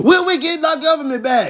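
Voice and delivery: shrill, high, loud yell. Picturing someone walking into a chatting room and blurting a question: imitating someone yelling out. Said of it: "you just yelled out".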